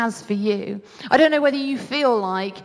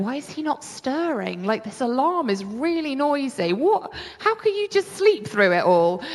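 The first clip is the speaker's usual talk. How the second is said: baffled; 3 semitones higher than usual. Retold or imitated. Retold bafflement at sleeping husband.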